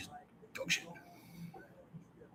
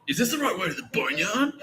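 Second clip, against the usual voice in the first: retold call; 8 semitones higher than usual. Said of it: "that call".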